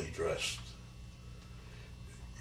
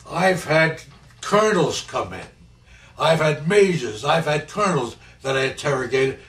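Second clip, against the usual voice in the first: loud, raised-pitch angry tirade; infuriated officer; 6 semitones higher, 8 dB louder than usual. Retold or imitated. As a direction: imitate an interrogator losing his temper. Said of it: "He got infuriated with me".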